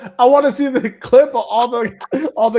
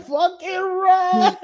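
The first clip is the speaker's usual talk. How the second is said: urgent warning; 8 semitones higher, much slower than usual. Retold or imitated. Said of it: "He said".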